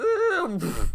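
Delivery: high squeaky gasp of fright; mock frightened squeak. Girlfriend frightened by a giraffe, high squeaky gasp. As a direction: imitate a startled girlfriend's squeak. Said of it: "she just fucking goes".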